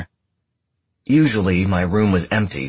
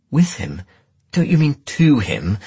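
higher, louder indignant comeback; sharp retort; 9 semitones higher, 5 dB louder than usual. A narrator's reading. Detective correcting her jealous partner, indignant retort. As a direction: throw the correction back indignantly.

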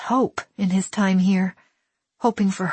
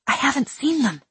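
put-on boy; 8 semitones higher than usual. A narrator's reading.

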